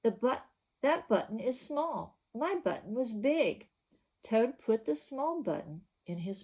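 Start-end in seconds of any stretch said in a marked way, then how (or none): 0.0-3.7 mild crying complaint. Acted. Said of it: "cried Toad".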